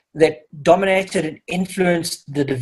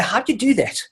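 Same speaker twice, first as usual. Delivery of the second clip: mildly astonished questions, a bit higher; astounded; 3 semitones higher than usual. Retold or imitated. Parent amazed as the kid fixes the phone, mock astonished. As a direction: lightly act out a parent's amazement. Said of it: "with an astounded look".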